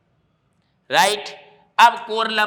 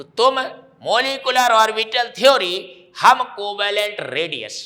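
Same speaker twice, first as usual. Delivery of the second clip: louder, higher run through the mnemonic; emphatic recap; 3 semitones higher, 4 dB louder than usual. Shown as a demonstration. Teacher to students recapping the mnemonic, loud and high. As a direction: belt the memory trick out to the class. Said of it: "तुम मतलब triclinic".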